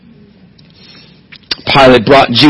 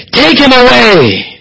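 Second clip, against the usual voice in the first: "Take him away!" higher and drawn out, slow; stretched higher cry; 10 semitones higher, slower than usual. Retold or imitated. The crowd presses Pilate, higher slower insistent cry. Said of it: "It was emphatic".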